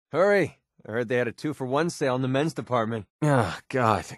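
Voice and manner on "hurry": a sharp raised call, higher and louder; urgent call. Acted. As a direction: hurry them along with a loud push.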